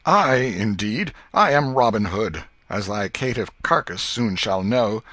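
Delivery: ringing high shout of Hold; loud challenge. Acted. Tom as Robin Hood challenging intruder, loud ringing call. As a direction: call out like a forest outlaw stopping a stranger.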